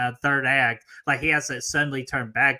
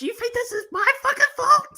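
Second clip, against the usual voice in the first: mock furious bride; 4 dB louder than usual. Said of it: "And she goes".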